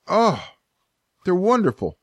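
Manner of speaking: pained but pleased burn; mouth burning from spicy food. Real, not acted. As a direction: savor the burning heat. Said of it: "breathe in so much pain yet feeling so good".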